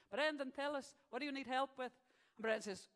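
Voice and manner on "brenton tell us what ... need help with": higher voice with a mock Italian accent; mock Italian-accented Pope. Pope asking Brenton his need, mock Italian accent. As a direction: question him as a cartoon Italian pontiff. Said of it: "and the Pope says".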